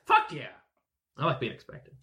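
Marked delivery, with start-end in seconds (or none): 1.2-1.9 breathy whispered aside. Real, not acted. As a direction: whisper it under your breath. Smug aside to party.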